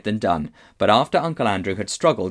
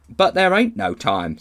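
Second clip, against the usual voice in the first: high, slow, loud Cockney protest; cabby; 9 semitones higher, 5 dB louder than usual. A narrator's reading. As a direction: protest urgently to the policeman in Cockney. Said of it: "said the cabby".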